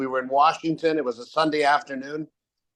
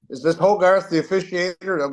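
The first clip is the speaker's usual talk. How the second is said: mock Pennsylvania accent, slightly raised; 4 semitones higher than usual. Threatening phone caller to the referee, lightly mimicked Pennsylvania accent. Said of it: "with a Pennsylvania accent".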